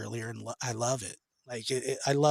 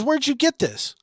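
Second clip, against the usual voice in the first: grandma; 12 semitones higher than usual. Retold or imitated. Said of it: "she goes".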